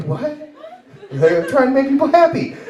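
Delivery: high, indignant re-enacted protest; incredulous protest. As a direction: squeak in mock-hurt disbelief. Hurt protest at being insulted.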